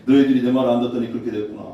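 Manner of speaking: fast, low scornful jab; scornful taunt. Acted. God scorning the disobedient, fast low taunt. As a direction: toss off the scorn quickly. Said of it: "그대로 말하는 거예요".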